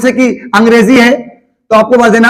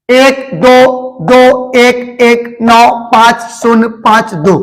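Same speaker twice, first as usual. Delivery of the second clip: slow dictation; much slower than usual. Shown as a demonstration. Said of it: "इसी प्रकार आपको शब्दों में उतार लेना है".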